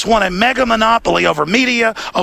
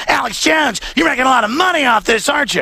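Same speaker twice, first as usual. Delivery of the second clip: higher-pitched mock interrogator; mocking accuser; 4 semitones higher than usual. Host mimics reporters confronting him about money, mock accusing. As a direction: imitate a needling reporter, pitched up.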